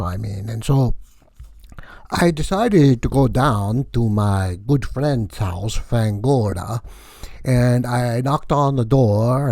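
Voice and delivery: hammed-up comic vampire count; lightly voiced comic Count Vlad; Count Vlad character. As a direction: play the wacky vampire count, boastful and loose. Held Count Vlad comedy character voice.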